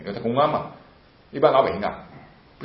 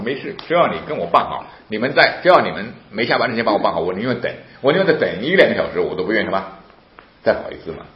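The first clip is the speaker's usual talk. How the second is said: retold insistent pleading; 3 semitones higher, 7 dB louder than usual.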